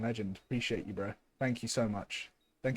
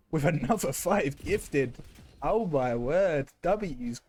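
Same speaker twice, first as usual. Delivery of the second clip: excited; 2 semitones higher, slower than usual. Real, not acted. Reacting to a big sub gift.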